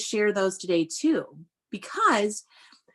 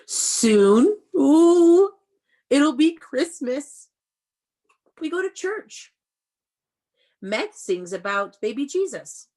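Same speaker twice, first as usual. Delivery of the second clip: much higher and louder, drawn out with delight; excited storybook read; 7 semitones higher, 7 dB louder, slower than usual. Acted. Teacher reading the book aloud to kids, thrilled and loud. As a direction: gush over it like Christmas is tomorrow.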